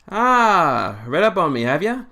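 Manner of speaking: high, loud, swooping smug delivery. Acted. Doctor to captain about being researched, smug. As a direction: draw out a loud, self-satisfied high opener. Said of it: "looking a bit smug".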